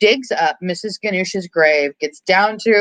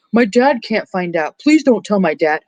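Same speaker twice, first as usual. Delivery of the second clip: mock pleading; 2 semitones higher than usual. Stu begs her not to tell his dad, mock pleading. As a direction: imitate a panicked man begging. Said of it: "he's begging and pleading".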